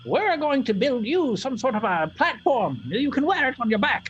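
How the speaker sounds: put-on high, creaky little old woman; tiny old lady voice. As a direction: play a bossy tiny crone, way up high. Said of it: "she nods and says".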